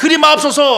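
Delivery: high, loud protesting cry. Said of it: "듣고 항변하여".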